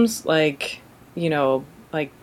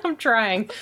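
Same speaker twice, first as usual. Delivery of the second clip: laughing; 5 semitones higher than usual. Real, not acted. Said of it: "say this plot without laughing".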